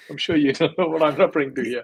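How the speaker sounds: chuckling while he talks; laughing through the words. Real, not acted. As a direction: let real laughter break into the line. Laughs at his own joke.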